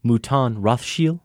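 stiff, formal waiter voice; acted film scene. Hosts acting a movie scene, lightly voiced roles. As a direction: play the waiter offering wine to his guest. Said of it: "I'm gonna start it off".

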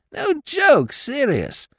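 a dim, friendly lord pleading his case; silly-ass lord. A narrator's reading. Lord Drever's voice.

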